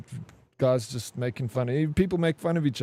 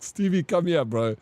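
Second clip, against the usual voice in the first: calling out; 4 semitones higher than usual. Retold or imitated. Calling buddy over while laughing.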